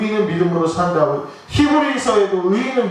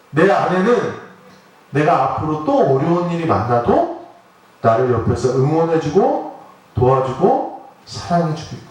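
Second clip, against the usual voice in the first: grateful inner thought. Retold or imitated. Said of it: "강력한 신뢰가 생긴 거예요".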